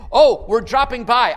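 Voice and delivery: loud, mock-chirpy visitor; loud announcement. Someone dropping by his messy house, announcing it loudly.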